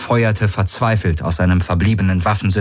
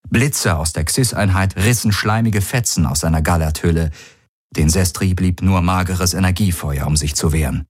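ordinary delivery

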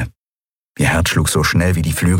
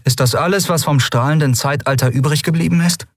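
higher-pitched, dismayed question; bitterly disappointed; 8 semitones higher than usual. A narrator's reading. Lien sees what is left, bitterly disappointed. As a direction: ask it in let-down disbelief. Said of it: "Lien klang bitter enttäuscht".

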